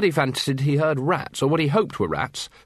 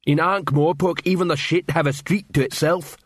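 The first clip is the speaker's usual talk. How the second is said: awed; 5 semitones higher than usual. Acted. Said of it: "awe and wonder in his voice".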